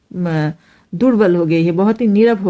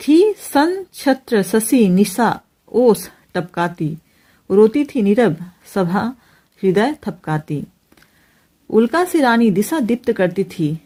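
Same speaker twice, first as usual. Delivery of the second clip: poem recitation. Acted. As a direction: recite the verse deliberately, phrase by phrase.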